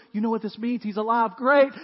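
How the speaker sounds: John bursting with excitement to Peter; excited disciple. Retold or imitated. Disciple John telling Peter, loud and excited. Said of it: "John looks at Peter and goes".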